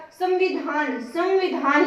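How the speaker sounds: संविधान as "sam-vidhaan", the m lightly sounded; slight "m" sound. Shown as a demonstration. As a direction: let a light m close the first syllable of संविधान. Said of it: "थोड़ी थोड़ी मैं की ही आ रही". (संविधान में हल्की म की ध्वनि, "सम्विधान")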